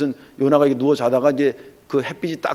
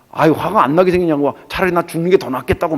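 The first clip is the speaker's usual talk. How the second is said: a touch higher, exasperated comeback; mock angry retort; 4 semitones higher than usual. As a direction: complain back like a mildly fed-up prophet. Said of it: "왜 화를 내냐".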